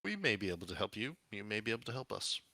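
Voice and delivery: mildly guarded, quick and even; non-committal. Acted. Red wizard answers Roboticus's plea for help, mildly non-committal. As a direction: hedge lightly, giving nothing away. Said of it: "she says non-committally".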